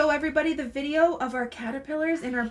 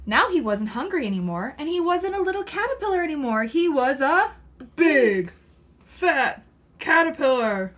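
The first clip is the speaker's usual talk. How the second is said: put-on reading to children. Mother reading a caterpillar book to her child, lively storybook voice. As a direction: read it aloud to a small child.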